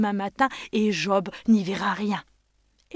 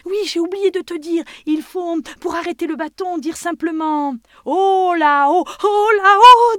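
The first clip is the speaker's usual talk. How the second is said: booming giant voice; 10 semitones higher, 12 dB louder than usual. Acted. Giant explains, calls to stick.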